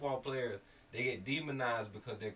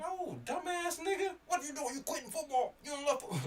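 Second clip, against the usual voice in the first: yelling at him. Retold or imitated. Fan yelling at the star running back who quit football, outraged shout. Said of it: "I'm yelling at him".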